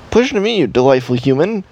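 high, odd alien voice. Shown as a demonstration. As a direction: speak like an alien visitor. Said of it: "and that's my alien voice".

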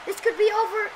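excited live play-by-play; wrestling commentator. Acted. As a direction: call the match like a ringside announcer.

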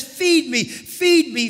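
urgent spirit plea; pleading cry. Acted. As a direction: call out like a hungry spirit. Spirit crying out to be fed.

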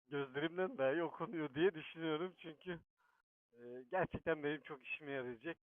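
muffled inside a helmet. Real, not acted. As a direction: speak from under the helmet. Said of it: "kaskın içinden konuşuyorum".

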